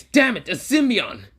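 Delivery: high, slow, alarmed cry; alarmed villain shout. Acted. Alien villain cursing at the symbiote, alarmed. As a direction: spit out the curse in alarm.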